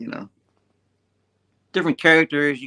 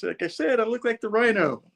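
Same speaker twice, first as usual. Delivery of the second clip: grumpy hero; 10 semitones higher than usual. Retold or imitated. Thing griping in comic.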